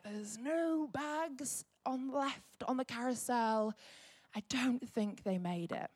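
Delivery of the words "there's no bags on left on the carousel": slow, softer flat-news delivery of bad news; deadpan announcement. To the team at the carousel, a slow softer announcement. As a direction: spell out the bad news slowly. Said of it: "and it's like".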